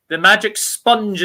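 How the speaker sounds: slow, playful quoting; tongue-in-cheek emphasis. Real, not acted. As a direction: say it like a cliché, drawn out. Quoting a football cliché.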